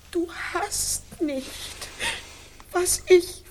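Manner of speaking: langsam, von leise zu laut anschwellend; verzweifelter Ausbruch. Acted. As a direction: steigere es bis zum Aufschrei. Verzweifelter Ausbruch gegen Ehemann. (Oksana schreit ihrem Mann verzweifelt entgegen)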